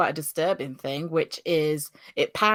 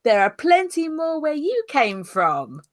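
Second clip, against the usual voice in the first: menacing line; 8 semitones higher than usual. Acted. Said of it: "she says the line".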